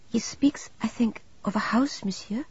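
soft-voiced nun. A narrator's reading. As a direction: speak softly with gentle detachment. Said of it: "The soft-voiced Sister of Charity".

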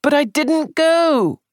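rising into agitation; high and excited. Acted. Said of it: "Sandford's voice rose high and excited".

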